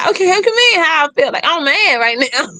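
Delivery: high-pitched, mock-indignant retort; exasperated retort. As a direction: retell being fed up with the question. Retold annoyed retort to therapist.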